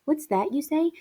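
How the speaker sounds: high, rising quoted question; imitated surprise. Teacher retelling poem's ending, imitated surprise. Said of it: "when they say".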